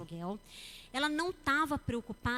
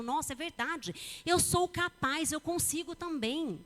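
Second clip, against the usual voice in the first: encouraged; 4 semitones higher, slower than usual. Retold or imitated. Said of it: "a pessoa fala".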